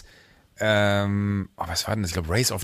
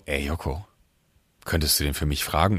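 soft pleading; 7 semitones lower, 5 dB quieter than usual. Retold or imitated. Friend begs him to ask.

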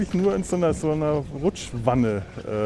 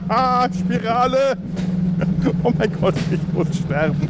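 sledding downhill; 9 semitones higher than usual. Real, not acted.

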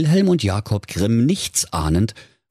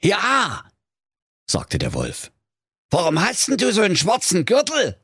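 much higher, fast wolf voice; curious wolf; 12 semitones higher than usual. Acted. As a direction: rush the next question. Wolf fragt weiter.

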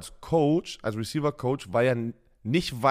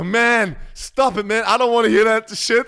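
annoyed American; 7 semitones higher, 6 dB louder than usual. Retold or imitated. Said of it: "Und er so".

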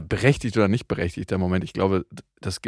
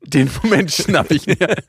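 slow, higher mock voice seizing the moment; scheming mock voice; 5 semitones higher, 4 dB louder, slower than usual. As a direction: gloat like you grabbed the spotlight. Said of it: "du, du".

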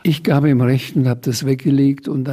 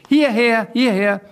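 high, louder thrilled calling; delighted shout; 8 semitones higher, 4 dB louder than usual. Acted. Sams calls the saleswomen over, delighted shout. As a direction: wave the crowd over with glee. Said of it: "schrie der Sams begeistert".

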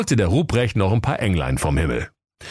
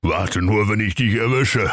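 mild threat in near-usual pitch; understated exasperated warning; desperate Ruprecht. A narrator's reading. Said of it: "rief der Rupprecht verzweifelt".

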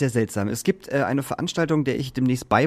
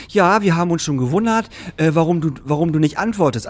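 higher, louder mock-reproachful voice; retold reproach; 4 semitones higher, 4 dB louder than usual. Organiser reproaches someone for not answering, mock reproach. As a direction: imitate someone pointedly puzzled by silence.

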